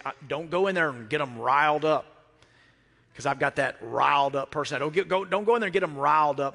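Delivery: wife's warning. Retold or imitated. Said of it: "Susan would always say".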